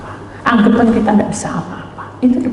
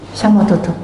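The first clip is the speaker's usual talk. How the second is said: ordinary delivery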